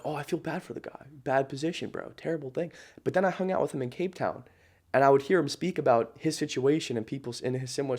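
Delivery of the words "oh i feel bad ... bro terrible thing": softer, lightly mocking sympathy; mock pity. Recalling how he used to pity his client, soft mock sympathy. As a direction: sigh it out with fake pity. His old pitying thoughts voiced.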